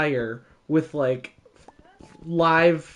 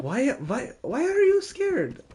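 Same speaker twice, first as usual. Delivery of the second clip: much higher, sing-song grandparent voice; 10 semitones higher than usual. Retold or imitated. Grandparents asking the scared kid, high and puzzled. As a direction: play the grandparent puzzled at the fear. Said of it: "they're like".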